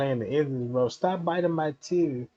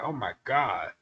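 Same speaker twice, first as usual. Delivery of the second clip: overwhelmed; 3 semitones lower, 7 dB quieter than usual. Retold or imitated. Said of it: "you sweating hormone like".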